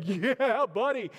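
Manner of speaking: imitating a proud dad cheering; hyped-up dad celebrating; pumped-up dad. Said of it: "He starts getting so pumped up".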